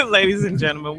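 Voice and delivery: laughing. Real, not acted. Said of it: "I can't even keep a straight face".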